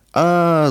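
short high-pitched narrated howl; mild mock wail. A narrator's reading. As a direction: cry out high without full force. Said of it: "завопил Тимур".

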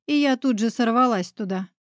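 plain reading voice

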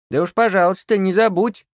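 put-on high, loud old witch voice; old witch grumbling a goodbye; gruff crone. A narrator's reading. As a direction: grumble it like a hag. Witch replies.

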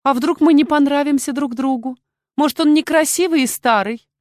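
high, loud excited chatter; chirpy, high and quick-worded; chirping. A narrator's reading. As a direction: twitter on eagerly like a young girl. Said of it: "тут же защебетала".

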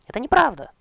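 very high, loud outraged shriek; shrieking cry. Acted. The bride's father screaming from the doorway at the king. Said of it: "выкрикнул её батюшка".

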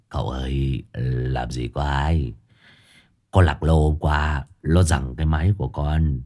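low pleading, half laughing half crying; whimpering plea. Acted. Disciple begging master to believe him, whimpering. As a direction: plead your innocence pitifully. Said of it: "Hải Nghẹo cười như mếu".

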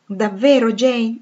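can it really be true?; incredulous question. Acted. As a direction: Rochester pressing Jane in eager disbelief. Rochester asks in disbelief.

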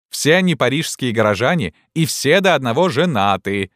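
high-pitched, mischievous declaiming; little imp. A narrator's reading. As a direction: proclaim it like a cheeky young student. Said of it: "продолжал маленький дьяволёнок".

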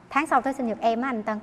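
soft, coy little request; coaxing hint. Retold or imitated. A giver softly asks for a return gift. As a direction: wheedle quietly for a gift back.

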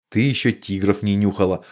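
ordinary delivery

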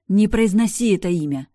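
sudden loud yell, pitch jumping up; furious yell. Acted. Sister forbids brother to say the name, yelling. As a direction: snap at him, forbidding the name. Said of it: "заорала я".

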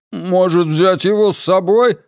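high, almost female voice. Acted. Dim henchman asking a question, high almost female voice. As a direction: ask it in a thin, girlish pitch.

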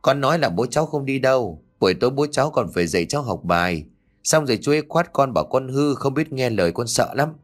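put-on a small boy telling a scary dream; hint of a child's timid voice; frightened little boy. Child Tiến voiced by narrator.

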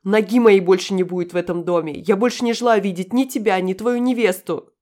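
громкий крик, выше, к концу медленнее; кричи прямо в лицо. A narrator's reading. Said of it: "Последнее крикнула ему прямо в лицо". (крик прямо в лицо)

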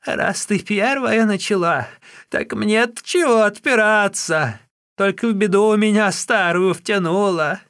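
put-on old Wang accusing the sister-in-law in a high, loud voice; angry old woman. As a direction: scold her in a shrill crone voice.

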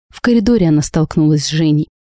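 usual speaking voice

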